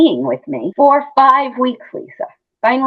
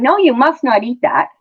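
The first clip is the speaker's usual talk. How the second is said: stern scolding nurse, raised voice; preachy nurse; 6 semitones higher, 5 dB louder than usual. Retold or imitated. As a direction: wag a finger and scold. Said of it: "is sort of like preaching".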